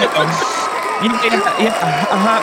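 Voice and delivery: high, loud splutter under fake slime; pretending to get slimed. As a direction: act like goo is pouring on you. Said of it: "that was me pretending I got slimed".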